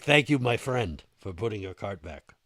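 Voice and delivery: mildly put-on Russian accent. Big Russian thanks man for returning cart, Russian-accented. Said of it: "a seven-foot-tall Russian dude".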